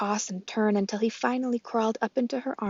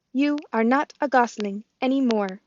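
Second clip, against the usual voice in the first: robot voice; 3 semitones higher than usual. Acted. Roz the robot speaks.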